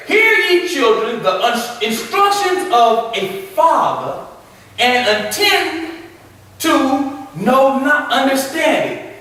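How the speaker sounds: drawn-out, reverent reading of the verse; slow scripture reading. Acted. Preacher reading scripture to the class. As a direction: read it slowly like holy writ.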